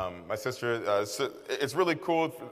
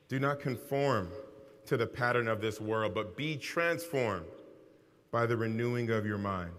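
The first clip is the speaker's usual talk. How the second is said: scripture reading. Real, not acted. Reads scripture aloud to congregation.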